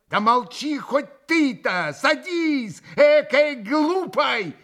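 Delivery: high, drawn-out, irritated snap; злобная досада. A narrator's reading. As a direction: scold him crossly and sit him down. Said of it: "со злобной досадой огрызнулась на него Грушенька". (огрызаясь, с досадой)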